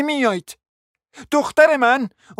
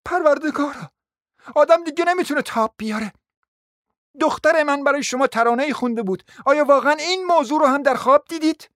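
higher-pitched exasperated cry, voice raised; furious outcry; 4 semitones higher than usual. Acted. Mother crying out at the prince in exasperation, mildly raised. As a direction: cry out as if at the end of your rope. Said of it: "فریاد میکشید".

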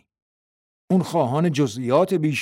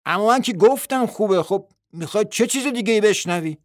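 louder, higher protest; said loudly; 8 semitones higher, 4 dB louder than usual. A narrator's reading. Bill protesting to his wife, louder and higher. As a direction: push back at her, raising the voice. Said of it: "با صدای بلند گفت".

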